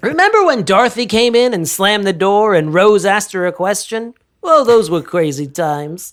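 lightly hammed-up wistful sitcom reminiscing; a hint of sentimental sitcom flashback voice; mock nostalgic recap. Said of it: "Remember this thirty seconds ago?".

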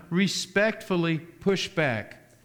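slow, deliberate respectfully; stress on respectfully. Real, not acted. Preacher urging believers to push back, slow stress on respectfully. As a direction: draw out respectfully before the action. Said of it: "I can't stress that word enough".

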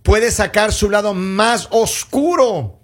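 measured reading of an article, slow in places; reading aloud. Real, not acted. Host reads experts' advice to co-hosts, reading aloud. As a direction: read the experts' warning out slowly.

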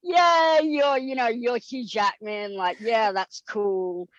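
pretending Hugh Jackman is no big deal; mock nonchalant. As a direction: shrug it off as if unimpressed. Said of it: "I tried to play, like, this kind of".

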